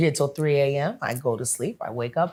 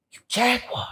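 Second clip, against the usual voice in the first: higher, surprised fan calling out "You Jaguar"; fan greeting; 11 semitones higher than usual. Retold or imitated. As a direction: call it out like a starstruck fan. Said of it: "he said".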